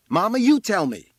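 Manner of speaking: high, loud yell; shouted demand. A narrator's reading. Boy on the roof to his mother, shouted demand. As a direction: yell it down as an order.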